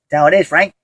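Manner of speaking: attempted coach impression, only lightly voiced; half-hearted impression of a football coach; John Gruden. Vlogger trying a coach impression, barely managed. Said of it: "trying to do my John Gruden impression".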